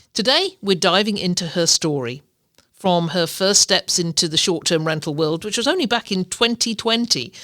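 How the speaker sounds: measured, scripted host introduction; podcast intro read. Real, not acted. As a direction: read the episode introduction to listeners.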